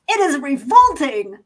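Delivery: slow, loud, disgusted line reading; quoted movie line. Retold or imitated. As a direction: deliver it like a disgusted android.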